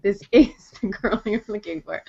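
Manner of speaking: lightly imitated Jedi mind trick, stressed IS. Retelling agent persuading the producer, mock Jedi mind trick. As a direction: playfully insist like a mock mind controller. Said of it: "did he Jedi mind trick".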